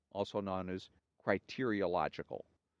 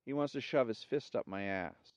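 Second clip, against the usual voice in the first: woman's voice; 2 semitones higher than usual. Acted. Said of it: "says the second woman".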